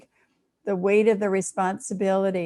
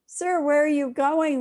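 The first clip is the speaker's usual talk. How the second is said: calling out; 7 semitones higher than usual. Acted. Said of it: "the nurse calls out".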